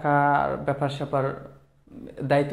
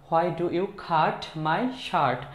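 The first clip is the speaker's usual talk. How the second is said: slow model phrase; much slower than usual. Shown as a demonstration. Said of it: "আমরা কিন্তু এরকম বলি".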